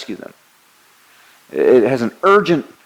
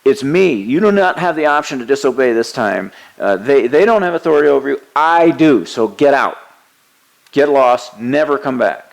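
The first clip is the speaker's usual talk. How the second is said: a firm, louder commanding voice; voicing Jesus ordering the demon out; forceful command to a demon, louder; stern rebuke; 3 semitones higher, 4 dB louder than usual. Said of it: "He's saying".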